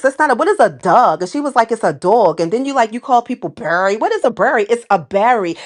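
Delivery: lively put-on New York accent; teasing New York cousins' accent. Shown as a demonstration. New York cousins teasing their country relative, put-on accent. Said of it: "give you my, um, New York accent".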